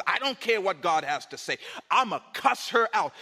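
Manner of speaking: loud, heated dismissal; acted angry defiance. Angry person refusing what God has to say, loud. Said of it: "I'm mad right now".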